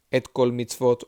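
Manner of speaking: Et kol mitzvot run together as one phrase; one smooth Et kol mitzvot; said connected. Shown as a demonstration. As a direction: link Et kol mitzvot without a break. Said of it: "all connected together".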